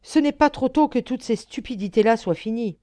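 reproche furieux, plus fort; le sermonner avec colère; angry reproach. A narrator's reading. Jeune homme furieux. (reproche irrité au comte qu'il attendait)

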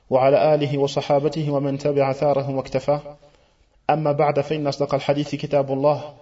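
brisk formulaic Arabic recitation; fast, practised sermon preamble; opening invocation. Real, not acted. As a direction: rattle off the familiar opening formula.

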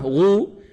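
غو as a long "ghu"; drawn-out غو, "ghuu"; ghayn with damma. Shown as a demonstration. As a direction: model غو with a rounded long vowel. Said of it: "وإذا كانت مضمومة".

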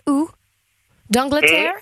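put-on English accent. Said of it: "avec un accent british".

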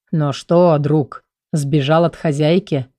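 ниже и медленнее, с улыбкой в голосе; ласково подтрунить над котом. Acted. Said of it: "с улыбкой спросил Роксар". (король гладит кота: с улыбкой)

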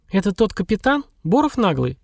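a touch of scorn, sneering at the captain; mild disdain, lightly voiced; scornful snort. A narrator's reading. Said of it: "пренебрежительно фыркнула Маша". (Маша с лёгким презрением фыркает о капитане)

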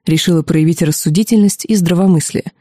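ordinary delivery

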